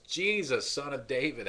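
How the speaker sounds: loud, high cry of Jesus's name; a desperate beggar's loud cry; retold scream. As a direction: call out loud and high like a desperate blind man. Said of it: "screaming out at the top of his lungs".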